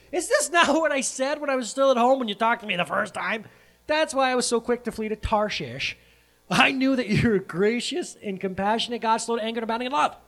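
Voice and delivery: high, loud acted tirade; indignant complaint. Jonah complains to God about his mercy, indignant. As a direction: rail in hammed-up protest.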